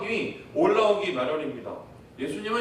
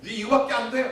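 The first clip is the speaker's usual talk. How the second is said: mock scolding; 4 semitones higher than usual. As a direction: scold like a strict coach. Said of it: "이러면서 오히려 다구치세요".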